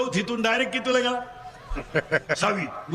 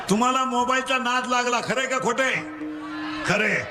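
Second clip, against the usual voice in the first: call-and-response preaching; 4 semitones higher than usual. Real, not acted. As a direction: leave the end rising for them to finish. (पोरांकडून वदवून घेणारा चढा सूर)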